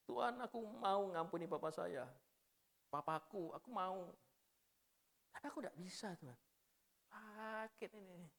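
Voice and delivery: quietly pleading, half-choked; retold tearful prayer. Young man praying to God about his father, understated tearful plea. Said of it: "Saya mau nangis, saya tahan".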